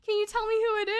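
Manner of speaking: high-pitched, overdone concern; imitation of a sympathetic adult; mock sympathetic counselor. Counselor consoling her, retold.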